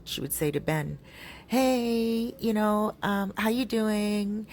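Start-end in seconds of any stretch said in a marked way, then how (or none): 1.5-4.5 higher, drawn-out flirty greeting; overly friendly. Retold or imitated. Russian woman greeting another woman's husband, overly friendly. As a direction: imitate an over-friendly hello, pitched up. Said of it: "she's just overly friendly".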